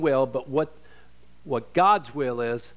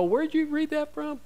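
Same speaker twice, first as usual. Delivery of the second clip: incredulous question; 11 semitones higher, 3 dB quieter than usual. Retold or imitated. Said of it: "and they go".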